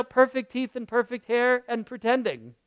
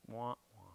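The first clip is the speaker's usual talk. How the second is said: mock sad wah-wah; 11 semitones lower, 20 dB quieter than usual. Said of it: "have your shoulders go like this".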